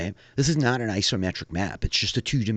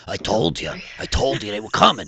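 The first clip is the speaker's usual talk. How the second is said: excited; 5 semitones higher, 6 dB louder than usual. Acted. NPC realizes strangers are near.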